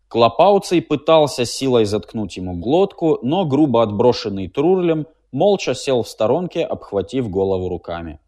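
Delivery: usual speaking voice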